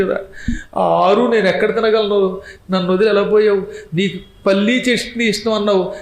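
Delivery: a hint of a widow's plaint; mock grieving wife. Wife laments over her dying husband, mock wailing. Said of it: "అలా తలుచుకుని ఏడుస్తారు".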